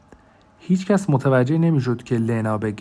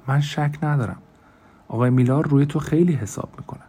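excited; 2 semitones higher than usual. Acted.

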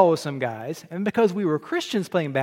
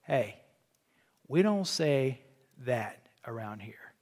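hushed rebuke; 5 semitones lower, 8 dB quieter than usual. Retold or imitated. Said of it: "a man came up to me and said".

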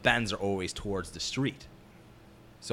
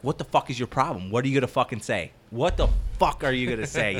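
raised, heated challenge; confronting the hothead; 4 semitones higher, 5 dB louder than usual. Retold or imitated. Operator confronting the angry ironworker, loud challenge. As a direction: get in his face, mock-tough. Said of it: "And he was like".

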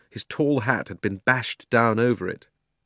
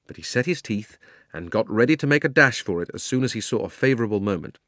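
ordinary delivery, nothing marked

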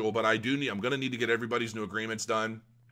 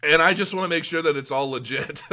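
getting emotional; 4 semitones higher, 5 dB louder than usual. Real, not acted. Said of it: "I hate getting emotional".

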